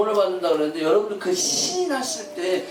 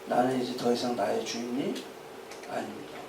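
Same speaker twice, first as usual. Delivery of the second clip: solemn confession; 7 semitones lower, 9 dB quieter than usual. Acted. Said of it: "그 고백에는 뭐가 담겨 있냐면".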